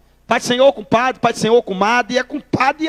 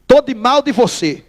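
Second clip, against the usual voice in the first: demonstração pausada, devagar; declaração de birra. Shown as a demonstration. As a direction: declare o rompimento bem devagar. Demonstra o ritual da briga. (birra dita pausadamente)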